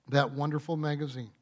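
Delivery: dry, quick aside, tongue in cheek; facetious. Real, not acted. Preacher jokes about Time magazine to congregation, facetious. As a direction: toss it off softly as a facetious aside. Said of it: "I'm being facetious".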